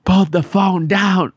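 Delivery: slow, high mock officer barking in English; stern officer. Imitating the airport agent ordering a woman, slow mock command. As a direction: drag out the order like a bossy guard. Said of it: "y fui que".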